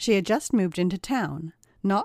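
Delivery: ordinary delivery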